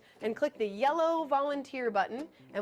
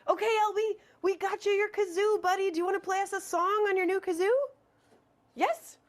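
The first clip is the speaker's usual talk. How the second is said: talking to a pet; 9 semitones higher than usual. Acted. Talking to the robot buddy.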